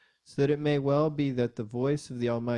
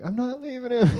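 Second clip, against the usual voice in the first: high, loud exasperated protest; retold shout; 13 semitones higher, 8 dB louder, faster than usual. Dad to watching hikers, retold desperate shout. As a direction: imitate a flustered dad shouting it out. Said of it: "shouting it out".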